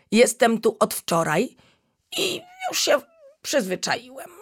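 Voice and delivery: high, lively little magician creature showing off; chameleon Magi showing off to the lion cub; boastful chameleon. Acted. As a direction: brag about tricks with a bouncy high voice.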